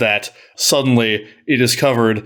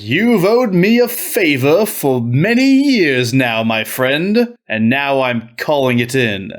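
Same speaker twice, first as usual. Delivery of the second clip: suave Marquis; 2 semitones higher, slower than usual. Acted. Marquis smoothly calls in favor.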